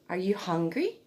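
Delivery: gentle rising question to a newborn; baby talk. Shown as a demonstration. Mum asking her newborn, lightly sing-song baby talk. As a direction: ask the baby sweetly. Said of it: "emphasize words from birth".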